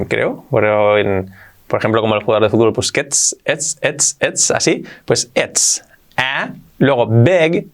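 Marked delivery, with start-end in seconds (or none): 3.4-4.5 ets with a crisp TS ending; marked TS. Shown as a demonstration. Teacher drilling a sound absent in Castilian, marked TS. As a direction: hit the TS in ets. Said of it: "La T S marcadla".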